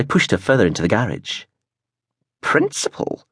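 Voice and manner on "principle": breathy, unvoiced word; whispered. A narrator's reading. Gran mocking his reason, whispered. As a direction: scoff the word under breath. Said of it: "she said".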